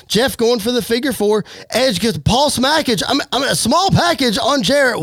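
lively wrestling commentary; play-by-play. Acted. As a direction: call the match as it happens. Live play-by-play of wrestling match.

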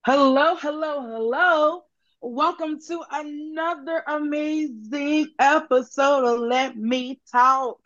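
slow drawn-out show host welcome; announcer intro. Acted. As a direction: welcome the listeners like a radio host. Podcast host opening announcement.

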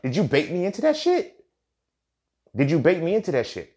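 mock-heated comeback to a nagging partner; heated retort. Man heatedly asking his partner if she baited him. Retold argument with a woman.

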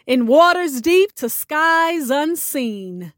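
spoken-word poem, steady and grave; poem recital. Acted. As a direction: recite it like an offering. Host recites her poem.

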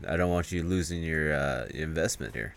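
soft, understated mock caution; hushed warning. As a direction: quietly imitate someone urging discretion. Acted hushed warning to a friend.

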